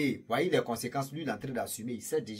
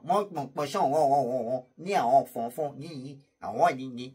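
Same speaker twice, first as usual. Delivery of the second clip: mock Chinese. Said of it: "Ça, c'est les Chinois".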